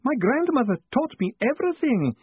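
high, tearful theatrical lament; wailing. Acted. Weeping post office clerk pouring out troubles to Moist, wailing. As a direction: pour out the woes in a high wail. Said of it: "the woman sobbed".

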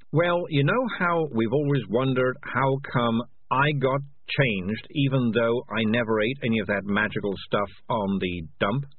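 lightly voiced cat edging into a confession; uneasy cat. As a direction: stall nervously as the guilty cat.

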